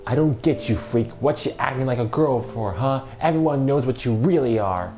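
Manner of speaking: jeering taunt. Acted. Bully taunts the beaten girl, loud and sneering. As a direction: sneer down at her on the ground.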